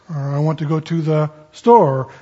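"store" leaned on after an even run-up; stress on STORE. Shown as a demonstration. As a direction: save the weight for the final word "store". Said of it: "The emphasis in this".

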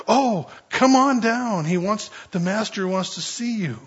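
coaxing call. Retold or imitated. Crowd now coaxing blind man forward.

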